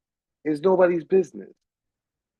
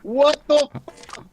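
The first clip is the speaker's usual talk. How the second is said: disbelief; 7 semitones higher, slower than usual. Real, not acted. Mocks friend's caution.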